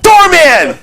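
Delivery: very high shrieking yell; mock screaming. Movie woman screaming at the doorman, high shrieking rant. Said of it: "She's like".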